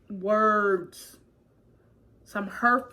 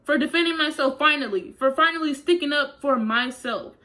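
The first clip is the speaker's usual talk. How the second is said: high, indignant protest; retold indignant outburst; outraged retort; 5 semitones higher, 4 dB louder than usual. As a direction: argue back at the principal. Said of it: "And I'm like".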